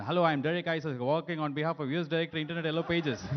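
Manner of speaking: a light imitation of a call center agent's American accent; a lightly put-on American accent, like a phone sales pitch. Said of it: "We can speak American accent".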